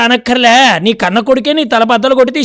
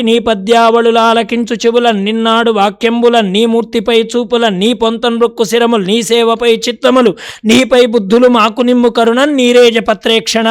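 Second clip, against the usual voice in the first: evenly intoned padyam recital; verse recitation. Acted. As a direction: recite the devotional verse in one steady, chanting line. (శ్రావ్యంగా పద్య పఠనం)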